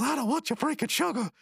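high cartoon tantrum; mock angry refusal. Birthday kid refusing his brother, high mock anger. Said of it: "And he goes".

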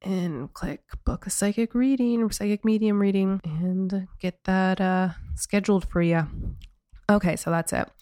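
hoarse, croaky voice from a sore throat; rough, raspy frog voice. Real, not acted. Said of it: "I apologize for my frog voice again".

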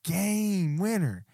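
loud, crowing brag, pitch rising high; cocky boast. Real, not acted. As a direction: boast it loudly, drawing out the last words. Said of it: "Get all cocky. I'm feeling good".

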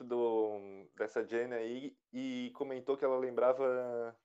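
choking on a sip, voice fading; words catching in the throat; choking on a drink. Real, not acted. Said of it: "peraí que eu engasguei".

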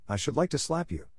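mildly heated threat; with some fire. A narrator's reading. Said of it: "with some fire".

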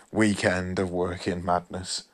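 words stretched by a yawn. Real, not acted. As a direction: talk through a yawn. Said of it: "Please forgive me for yawning".

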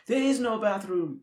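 put-on slow, loud Austrian accent, Schwarzenegger style; heavy Austrian accent, each word slow and loud. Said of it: "Austrian accent".

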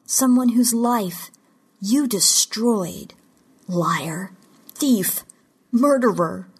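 slow, pointed accusation with pauses; bitter accusation. A narrator's reading. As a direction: hurl each charge separately at the captor. Captive accuses her captor.

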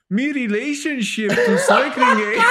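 put-on high, loud laughing Scottish accent. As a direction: push a jokey Scottish brogue through the giggles. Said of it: "my best Scottish impression".

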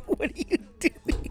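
slow, breathy whispered repeat. Real, not acted. Repeating the question to his cousin in a slow whisper. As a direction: whisper the question again, slowly.

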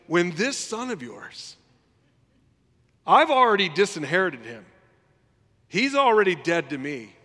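loud, bitter accusation to his father; indignant older brother. Retold or imitated. Older son confronting his father, loud and bitter. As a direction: rant at Dad with outrage. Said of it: "that's what he's saying".

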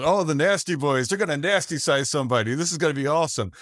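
lightly imitating an excited announcer; mock babyface commentator. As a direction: hype it like a cheesy commentator. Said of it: "you have the good guy going".

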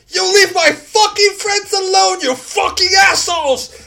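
loud, high-pitched youthful creature yelling; youngish monster shout. Acted. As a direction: roar it like an angry young brute defending friends. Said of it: "the manner of speaking is so youngish".

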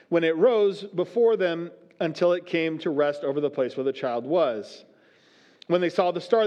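measured, solemn Bible reading; steady pulpit reading voice; scripture reading. Acted. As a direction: read the passage aloud to the congregation. Reads Matthew's account aloud.

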